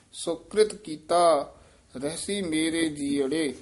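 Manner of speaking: ਰਹਿਸੀ said softly and lightly. Shown as a demonstration. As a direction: let ਰਹਿਸੀ fall gently, not pressed. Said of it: "ਰਹਿਸੀ ਇੱਥੇ ਪੋਲਾ ਹੀ ਉਚਾਰਨ". (ਰਹਿਸੀ ਪੋਲਾ ਉਚਾਰੋ)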